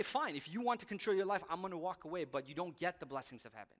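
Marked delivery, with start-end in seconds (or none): 0.0-2.2 God letting you go. Retold or imitated. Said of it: "He'll say".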